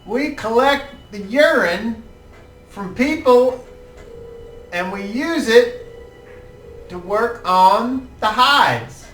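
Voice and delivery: put-on high, eager old-man voice; hopeful old man asking a favour; old tanner. Old tanner pitches the job.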